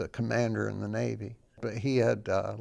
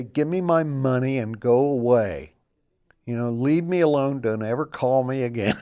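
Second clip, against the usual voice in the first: a touch louder, brushing someone off; mock angry dismissal; 6 dB louder than usual. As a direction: lightly play an angry person saying go away. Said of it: "Some people are gonna say".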